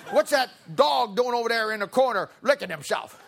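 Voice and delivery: hammed-up cranky grandma; shouting grandma. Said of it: "Do you see a grandma talking like that?".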